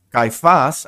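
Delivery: Caifás said with the stress on the final A, kai-FAS; Caifás, stressed on the final syllable. Shown as a demonstration. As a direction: say Caifás with the accent landing on the last A. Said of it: "acento en la A".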